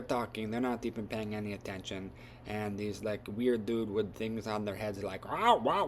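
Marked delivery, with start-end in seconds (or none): 5.3-5.9 high, loud whooping call; creature whoops. Retold or imitated. Raiders whooping before blasting, high whoops.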